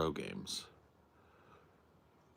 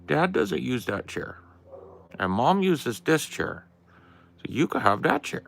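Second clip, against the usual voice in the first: very high pet-talk voice; talking to the dog; 8 semitones higher, 4 dB louder than usual. Acted. Settling the dog onto its chair, very high doting pet voice. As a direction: coo at the dog way up high, sing-song.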